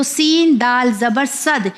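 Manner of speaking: slow spelling, صد with a rebounding d; صد ending on a pressed double-sounding d; qalqalah on صد. Shown as a demonstration. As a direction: let the d of صد knock and echo. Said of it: "وہ اسے کلکلا کہا جاتا ہے".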